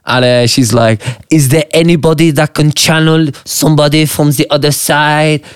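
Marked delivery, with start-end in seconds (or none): 1.3-5.4 mock French accent. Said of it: "pretending to be a French psychic".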